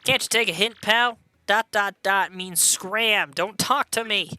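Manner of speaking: lightly voiced tough customer; curt brush-off. Character tells a pal to scram, mildly gruff dismissal.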